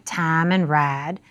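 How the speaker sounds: 'tam' and 'rad' with a flat ah vowel for I; Southern monophthong vowels. Shown as a demonstration. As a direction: slowly say 'tam and rad' with ah, no glide. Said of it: "Southern vowel pronunciations like".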